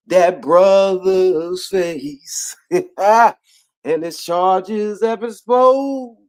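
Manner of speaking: slow, high, laughing apology; mock-sincere apology through laughs. Real, not acted. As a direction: apologize while cracking up.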